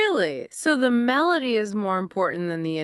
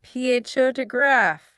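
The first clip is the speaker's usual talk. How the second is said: "P H O to graph" led by a higher, stressed "P H O"; stress on first syllable; 5 semitones higher than usual. Shown as a demonstration. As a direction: echo "P H O to graph", hitting its first part. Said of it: "It's right on the first part".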